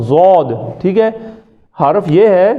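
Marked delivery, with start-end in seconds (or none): 0.0-0.8 non-Arab ضاد. Shown as a demonstration. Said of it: "اہل عجم اس کو کہتے ہیں ضاد".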